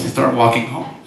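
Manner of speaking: ordinary delivery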